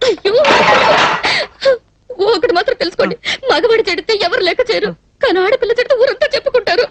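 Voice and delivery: tearful, wronged pleading. Acted. Spurned woman threatening poison to the man, tearful. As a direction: plead through sobs. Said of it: "ఎందుకు ఏడుస్తున్నట్టు".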